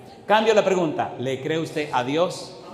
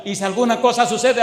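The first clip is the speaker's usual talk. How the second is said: laughing owner; 6 semitones higher, 5 dB louder, faster than usual. Retold or imitated. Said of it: "Y le dice a la mujer".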